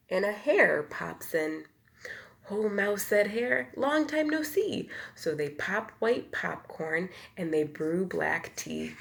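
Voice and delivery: lively bedtime storybook read; reading to children. A narrator's reading. Reader to children, lively storybook voice. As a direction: tell it like a picture book to little ones. Reads picture book aloud.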